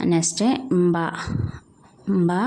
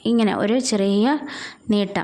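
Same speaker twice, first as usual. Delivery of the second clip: drawn out; 3 semitones higher than usual. Shown as a demonstration. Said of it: "നീട്ടി വേണം നമ്മൾ പറയാൻ".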